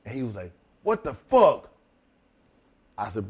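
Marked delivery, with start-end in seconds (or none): 0.8-1.7 shocked partner. Retold or imitated.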